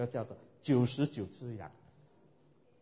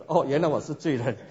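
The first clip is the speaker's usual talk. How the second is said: laughing; 4 dB louder than usual. Real, not acted. Laughs at realizing being a sinner.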